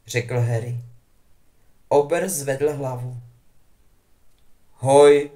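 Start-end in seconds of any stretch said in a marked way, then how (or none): 4.8-5.3 low hoarse grunt of a greeting. A narrator's reading. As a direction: croak it out, worn down. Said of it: "odpověděl chraplavě". (chraplavě a tiše)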